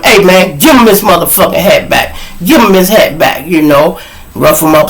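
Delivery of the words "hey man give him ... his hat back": loud, higher scolding yell. Retold or imitated. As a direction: bark it at the bully. Yelling at the bully.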